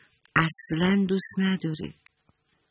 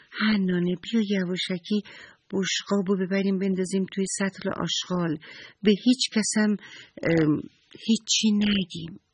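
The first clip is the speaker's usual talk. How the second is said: put-on sneaky little girl; 4 semitones higher than usual. Saba plots to hide the plate.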